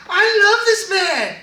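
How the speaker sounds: high, loud hammed-up gush; exaggerated shrill devotion; mock gushing. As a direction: overdo the love declaration, very high and loud. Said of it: "She's like".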